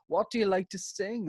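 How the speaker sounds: high, put-on judge's question; Louis Walsh. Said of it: "Louis would be like".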